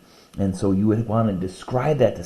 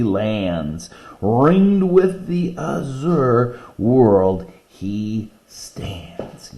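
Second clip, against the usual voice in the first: slow, grand poem reading; much slower than usual. Acted. Teacher reading a favorite eagle poem, slow and grand. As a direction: let the lines soar slowly.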